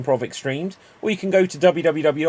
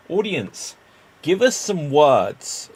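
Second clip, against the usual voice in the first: calling out to audience; slower than usual. Acted.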